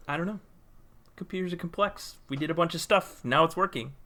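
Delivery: sheepish shrug. Retold or imitated. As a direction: play it off with a helpless little shrug. Retelling own answer to customers.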